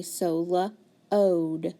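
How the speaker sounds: lo-ode with a stretched long O; sounding out. Shown as a demonstration. Teacher to student, stretching the vowel. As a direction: draw out the O in lo-ode. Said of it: "it's gonna be a long O".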